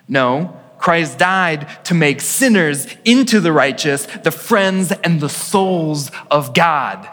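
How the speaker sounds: preaching a quote. Acted. Pastor reads Luther to congregation, emphatic and measured. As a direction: read Luther's words to the congregation with weight.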